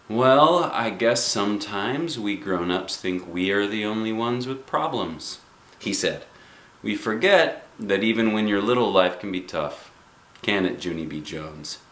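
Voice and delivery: put-on kind, tired principal comforting a child; gentle principal.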